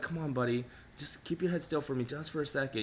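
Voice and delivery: soft, patient coaxing; coaxing groomer. Pretend. Groomer holding scissors, softly coaxing the dog to stay still. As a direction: gently coax the wriggling dog. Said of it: "you're just like".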